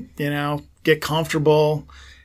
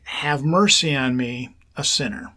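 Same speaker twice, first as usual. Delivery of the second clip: slow breath prayer. Shown as a demonstration. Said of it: "you say".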